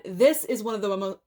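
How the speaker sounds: fumbled phrase, cut short mid-word; tongue-tied stumble. Real, not acted. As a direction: trip over the words and break off. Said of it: "can I talk today?".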